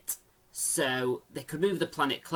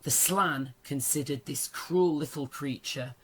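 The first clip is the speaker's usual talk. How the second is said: story narration. Acted. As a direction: read the passage like an audiobook. Reads novel passage aloud.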